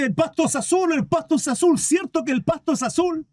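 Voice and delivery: high, insistent donkey voice; donkey crying out. Acted. Donkey asking the lion to agree, high mock shouting. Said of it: "Y el burro le gritaba".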